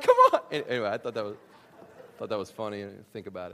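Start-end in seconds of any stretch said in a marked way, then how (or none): 0.0-0.4 very high, loud laughing come on; mock disbelief. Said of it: "I was like".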